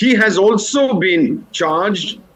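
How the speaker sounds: very slow, deliberate delivery. Addressing a panel so all of them can understand, speaking very slowly. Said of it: "I say this very slowly".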